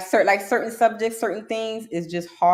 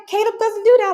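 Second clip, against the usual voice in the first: parent denying; 9 dB louder, faster than usual. Retold or imitated. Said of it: "she's like".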